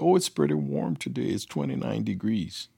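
a hint of a chirpy wife; wife's cheery reply. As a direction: breezily imitate an untroubled wife. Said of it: "So I called my wife up".

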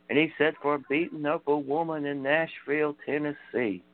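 lightly voiced storytelling wrestler, slowing for the punchline; Terry Funk. Retelling a wrestler's sheriff joke, light Terry Funk impression. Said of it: "those funny Terry Funk promos".

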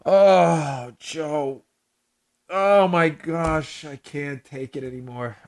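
drained groan fading to quiet; teary, worn out. Real, not acted. Host to co-host, can't take it anymore, worn out and teary. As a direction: sigh it out, spent from laughing. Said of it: "I'm legitimately crying right now".

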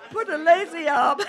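words squeezed out between laughs; can't keep a straight face reading; laughing through it. Real, not acted. Reader cracking up mid-sentence.

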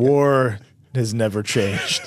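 low, very slow ominous voice; Palpatine voice. Acted. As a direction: intone it slowly like a villain. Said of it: "your Chancellor Palpatine voice".

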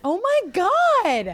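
loud, high, slow "oh my God"; stunned. Real, not acted. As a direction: drag it out in shock, loud and high. Hears the answer is straight man.

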